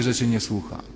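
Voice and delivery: ordinary talk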